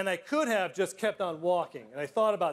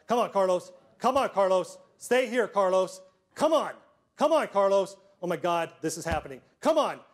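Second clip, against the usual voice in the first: a loud, strained plea during chest compressions; desperate pleading; 4 semitones higher, 6 dB louder than usual. Retold or imitated. Principal giving CPR to Carlos, desperate loud pleading. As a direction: beg him to stay with you.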